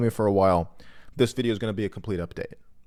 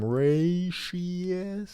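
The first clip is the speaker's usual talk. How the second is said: whispered aside; 8 semitones higher, 5 dB quieter than usual. Real, not acted. Whispered aside before the accent bit.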